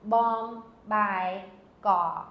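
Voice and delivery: "bom, bai, ga" as three separate beats; each of "bom, bai, ga" given its own weight; three separate syllables. Shown as a demonstration. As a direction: split "bom", "bai", "ga" apart evenly. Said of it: "how do I know there's not three syllables".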